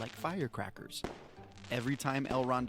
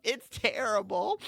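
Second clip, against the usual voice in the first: high, loud tearful elf; cracking wail; 10 semitones higher, 10 dB louder than usual. A narrator's reading. Elf brings bad news to the knight, voice cracking. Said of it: "his voice cracking like a cookie".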